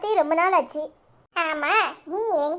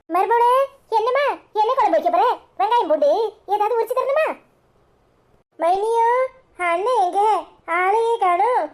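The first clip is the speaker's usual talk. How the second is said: higher, overly sweet coaxing tone; butter up the daughter-in-law innocently; fake sweetness; 5 semitones higher than usual. Mother-in-law sweet-talking daughter-in-law after gossiping, falsely sweet.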